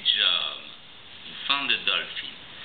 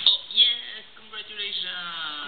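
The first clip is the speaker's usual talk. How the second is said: excited praise; 10 semitones higher than usual. Real, not acted. Praising toddler.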